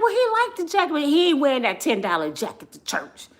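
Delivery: high, loud mock protest to mother; retold loud protest. Mock-arguing with mother in story.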